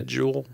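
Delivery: "Schedule" begun with a soft SH, SHED-yool; British pronunciation. Retold or imitated. Giving an example of Canadians' English vibe, "Schedule" opened with SH. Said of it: "They got a little English vibe".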